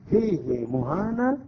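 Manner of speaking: فيه said fiihii, ha drawn long and slow; lengthened ha. Shown as a demonstration. Teacher stressing the one exception to the rule, slowly. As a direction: stretch the ha in فيه. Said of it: "يشبع هذه الهاء".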